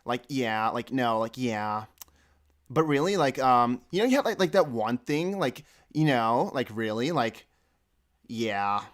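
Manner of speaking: lightly imitated Californian girl, strung-out filler words; a hint of California Valley Girl; Californian girl accent. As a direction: do a mild mock Californian girl. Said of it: "she always said".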